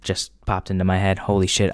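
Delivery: usual speaking voice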